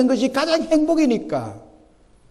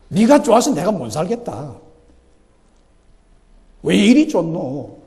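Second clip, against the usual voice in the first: Gyeongsang dialect; 6 semitones lower than usual. Shown as a demonstration. Preacher showing the congregation God's love, in a light Gyeongsang dialect. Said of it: "우리 경상도 말로 말하면".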